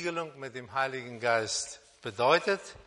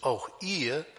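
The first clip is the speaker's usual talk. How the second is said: "auch ihr" set apart slowly and deliberately; slow down and lean on "auch ihr"; weighted, emphatic "auch ihr"; stress on AUCH IHR. Shown as a demonstration. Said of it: "hier eine Betonung liegt".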